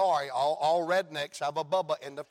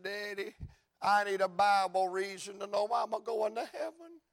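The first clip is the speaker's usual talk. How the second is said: crying son; 5 semitones higher than usual. Retold or imitated. Voices crying young son.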